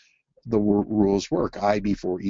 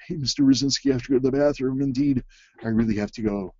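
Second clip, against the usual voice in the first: put-on child asking; 4 semitones higher, faster than usual. Child voiced asking to leave.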